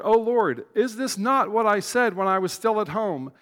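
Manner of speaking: hammed-up petulant prophet; temper tantrum. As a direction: whine like a toddler who didn't get his way. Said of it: "two-year-old level temper tantrum".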